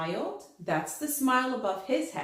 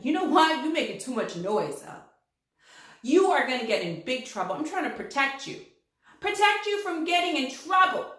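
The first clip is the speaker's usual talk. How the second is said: scolding letter T; 4 semitones higher, 4 dB louder, faster than usual. Acted. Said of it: "he said".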